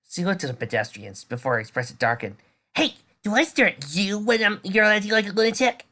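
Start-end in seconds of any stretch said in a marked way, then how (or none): 2.7-5.8 irritated retort. Acted. Girl snapping at staring crowd.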